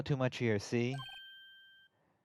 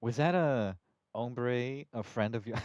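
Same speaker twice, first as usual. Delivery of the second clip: cowboy voice; slower than usual. Acted. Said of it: "saying hombre is so funny".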